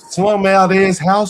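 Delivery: high, drawn-out taunt; heated insult. Real, not acted. Panelist mocking where his rival lives, heated. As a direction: stretch the insult out, pitched high.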